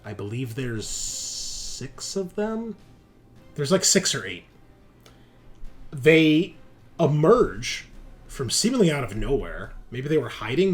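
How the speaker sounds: measured scene setting with suspenseful pauses; unfolding action narration; game master's narration. Pretend. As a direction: open loud, then reveal it phrase by phrase.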